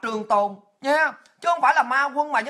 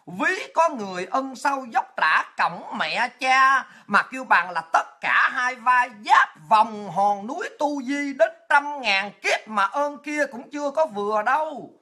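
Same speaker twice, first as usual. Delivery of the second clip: slow, measured recital of a moral poem; recited verse; slower than usual. Acted. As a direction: draw out each line like an old saying.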